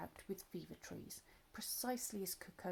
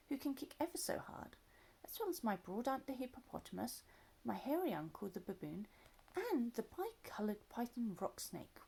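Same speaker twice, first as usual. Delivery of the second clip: put-on little elephant child; 2 semitones higher than usual.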